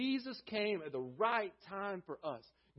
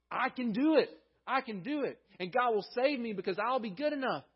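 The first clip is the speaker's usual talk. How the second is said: higher, louder mock self-assurance; self-confident boast; 5 semitones higher, 3 dB louder than usual. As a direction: play the proud self-reliant believer. Mock self-reliant inner voice.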